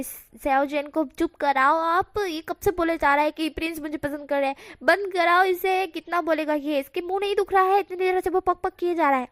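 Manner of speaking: exasperated complaint. Acted. Mother fed up with her chattering son, exasperated and loud. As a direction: hands over ears, begging someone to shut him up.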